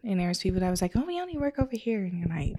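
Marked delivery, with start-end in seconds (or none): 1.0-2.0 quick, higher, airy snub; brushing her off like an outsider; mock snooty. Retelling cliquey photographers, light snooty voice. Dismissive people quoted.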